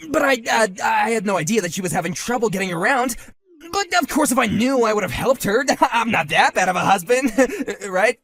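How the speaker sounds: high, loud, defensive with nervous laughs; nervous laughing. Acted. Husband defending himself to the rival, nervous laugh. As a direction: laugh it off awkwardly.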